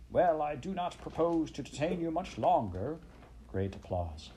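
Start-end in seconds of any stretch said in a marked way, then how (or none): 0.1-3.0 high-pitched pompous weasel; squeaky speechmaker. A narrator's reading. Chief Weasel addressing the banquet, high and squeaky. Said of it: "began in a high, squeaky voice".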